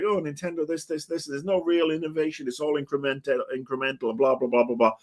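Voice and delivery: mocking. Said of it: "the media is like".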